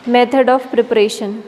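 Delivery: very slow, each syllable drawn out for notes; slow dictation. Shown as a demonstration. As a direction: spell the name out slowly for the class. Teacher announcing topic heading. (बहुत धीरे, लिखवाते हुए)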